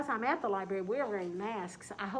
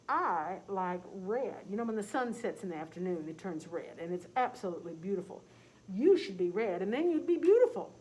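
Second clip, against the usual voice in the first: gentle cow; 2 semitones lower, 4 dB louder than usual. Acted. Cow suggests red.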